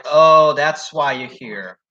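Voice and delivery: imitated knowing "oh", drawn out slowly; slow, pointed imitation of his odd tone; unusual tone. Showing a friend the counter man's unusual tone. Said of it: "Like, that kind of tone".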